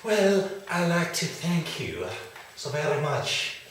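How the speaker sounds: different voice. Acted. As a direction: slip into a new voice. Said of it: "I start speaking in a different voice".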